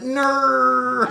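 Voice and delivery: high, squeaky imitation of a mother; laughing high mum voice; mock mom. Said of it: "she's like".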